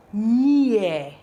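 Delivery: "near" stretched as nee-eh; "near" as a drawn-out teaching word, falling; ni sound. Shown as a demonstration. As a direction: model "near" starting with a clear ni. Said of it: "This is sounding ni now".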